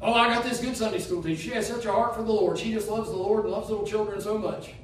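a light mock voice of a smug churchgoer, running quick; lightly voiced self-satisfied church member. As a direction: breeze through the boasts like a complacent believer.

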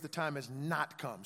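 slow, measured "The time has not come"; emphasized phrase. Shown as a demonstration. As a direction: give every word of "The time has not come" weight. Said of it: "I want you to emphasize on the phrase".

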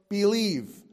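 loud, high, insistent refusal; stubborn disciple declaring he won't believe; defiant Thomas. Acted. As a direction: hammer out the doubt. Preacher acts out Thomas's doubt.

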